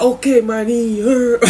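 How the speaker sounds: high mock voice, drawn-out "er"; V's mispronunciation. Cellmate mangling slang, high voice ending in "er". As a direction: imitate him high, leaning on "er". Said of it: "he'll say the er".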